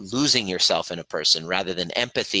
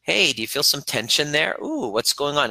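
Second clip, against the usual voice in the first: gentle check-in; 6 semitones higher than usual. Shown as a demonstration. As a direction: ask it gently, like checking on a scared kid. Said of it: "kind of like".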